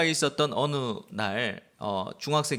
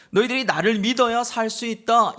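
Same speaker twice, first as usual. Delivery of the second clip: raised, higher preaching voice imitating a shout; retold street cry; 6 semitones higher, 4 dB louder than usual. Jesus retold preaching to the Jews, crying out. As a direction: cry it out as a retold public sermon. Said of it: "큰 소리로 외친 게 뭐예요".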